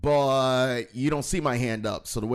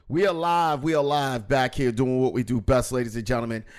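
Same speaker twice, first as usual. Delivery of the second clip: host announcer voice; 3 dB louder than usual. Acted. Announcer opening.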